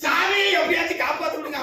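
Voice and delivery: hammed-up cry for help; pleading. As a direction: imitate a desperate husband begging a god. Retold husband begging god to help.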